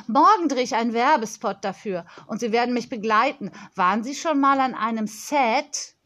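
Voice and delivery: lightly voiced confident child; a touch of self-important girl; bossy young girl. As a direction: hand out plans like a little boss.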